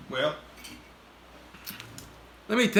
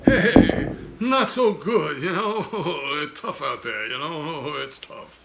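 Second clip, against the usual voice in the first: Dodney; 3 semitones higher, 5 dB louder, slower than usual. Acted. Ventriloquist dummy answering host.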